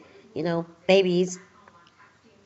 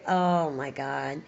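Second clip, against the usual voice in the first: slow, lower, sighing relief; relieved oh my God; 4 semitones lower, slower than usual. Retold or imitated. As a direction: breathe it out slowly like pain just stopped. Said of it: "it's like".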